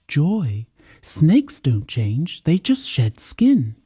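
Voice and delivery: slow, deliberate motherly warning. Acted. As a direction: lean on each word as a caution. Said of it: "Mary warned".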